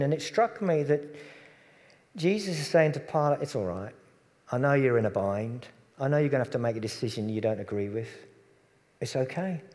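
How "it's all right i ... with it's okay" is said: gentle reassurance. Acted. Jesus tells Pilate it's all right, gently. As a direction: ease a worried man's mind.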